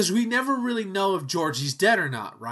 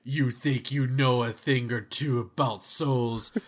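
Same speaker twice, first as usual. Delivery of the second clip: menacing wrestler promo; 3 semitones lower than usual. Pretend. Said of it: "Dead Man versus It".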